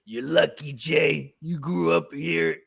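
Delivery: slow, measured imitation of dad; drawn-out words, mimicking a father's emphasis; dad's cadence. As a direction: lightly imitate dad's deliberate lecturing cadence. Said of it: "He talks like that too. That's, like, his cadence".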